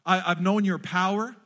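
loud, slow pleading prayer; crying out. Retold or imitated. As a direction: plead with God, pouring your heart out. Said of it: "what Moses was crying out for".

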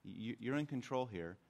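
soft, quiet letting go to God; hushed surrendered prayer. Retold or imitated. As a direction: hands open, quietly yielding. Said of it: "I'm like".

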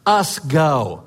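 gentle invitation. Retold or imitated. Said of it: "put your arm around them and say".

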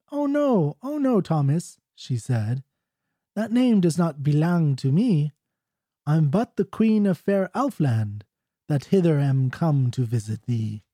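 lifted, lilting ballad dialogue; ballad queen speaking. Acted. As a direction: recite the Elf Queen's reply as formal verse. Ballad's Elf Queen answers Thomas.

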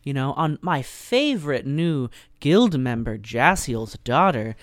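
high, slow, showy fake concern; a predator playing the gracious host, hammed up; showy guildmaster. Guildmaster putting on a public show, high and slow. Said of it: "the speaker being very showy".

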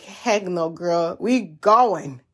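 slow, drawled sassy refusal; a sassy girlfriend dragging you along, slowly; sassy body voice. Retold or imitated. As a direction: play your stubborn body brushing off the advice. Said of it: "my human body is like".

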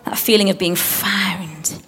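slow awed whisper. Shown as a demonstration. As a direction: hush it like a secret. Whispered reflection.

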